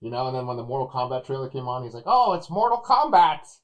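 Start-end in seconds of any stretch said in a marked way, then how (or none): 2.1-3.6 high, loud, stretched-out excited call; imitating excited announcing. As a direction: mimic an overexcited moviegoer announcing the trailer. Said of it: "one guy that was, like, real excited".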